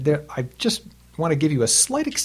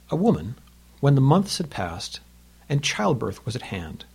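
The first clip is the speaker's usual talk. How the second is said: measured storytelling read of a fable; poem reading; 4 dB louder than usual. A narrator's reading. Teacher reads the fable to students, measured reading.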